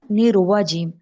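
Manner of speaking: نی روا جیم with a w after the ra; the students' mistake with rounded lips; wrong rounded ra. Shown as a demonstration. Teacher imitating the wrong نی روا جیم. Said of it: "کچھ student کیا کرتے ہیں".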